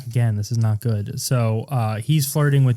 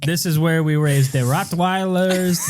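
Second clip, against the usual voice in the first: slow, hammed-up Russian accent. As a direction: show off the dogs in drawn-out Russian English.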